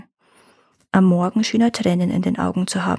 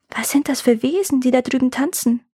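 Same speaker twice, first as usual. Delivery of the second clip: put-on curious girl; 4 semitones higher than usual. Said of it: "fragt das Mädchen plötzlich".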